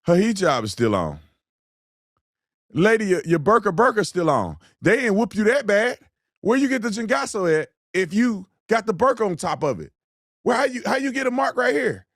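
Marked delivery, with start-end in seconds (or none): 2.7-12.1 high-pitched, disbelieving challenge; incredulous scolding. Real, not acted. Scolding the woman in the clip.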